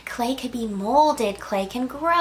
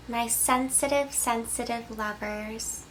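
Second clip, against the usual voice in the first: tender softening; 6 dB quieter than usual. Acted. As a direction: linger gently on sensitive. Tender address to sensitive viewers.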